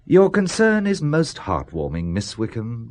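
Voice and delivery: slow, mock-heartfelt sarcasm; dry sarcasm. Boss slowly mocking his secretary's concern. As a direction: thank her with mock warmth.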